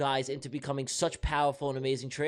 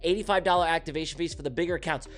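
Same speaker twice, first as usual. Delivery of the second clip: sponsorship voice; 2 semitones higher than usual. Shown as a demonstration. Streamer reads sponsors to viewers before the charts, in a sponsorship voice. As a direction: pitch it like a hyped-up announcer. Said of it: "Let me put my sponsorship voice on".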